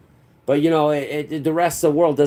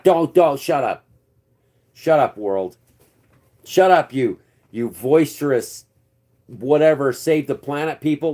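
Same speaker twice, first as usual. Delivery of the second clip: exasperated; 3 semitones higher, 3 dB louder than usual. Real, not acted. Angrily telling the world off.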